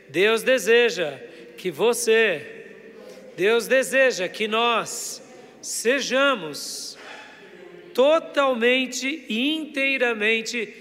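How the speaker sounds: loud, slow preaching declaration; rallying call-and-repeat. Real, not acted. Preacher rallying the congregation to tell another brother, loud and emphatic. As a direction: proclaim it in big, drawn-out phrases.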